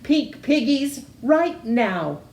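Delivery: high, greedy witch voice; gleeful witch. Acted. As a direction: cackle out her craving, lips smacking. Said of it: "Gritch said, smacking her lips".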